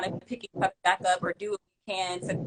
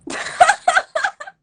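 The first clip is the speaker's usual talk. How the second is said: burst of laughter; 10 dB louder than usual. Real, not acted. Laughs at own slipped accent.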